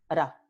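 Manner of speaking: ra with a single tongue flick; one light tap on ra; tapped r demo. Shown as a demonstration. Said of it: "se llama una vibrante simple".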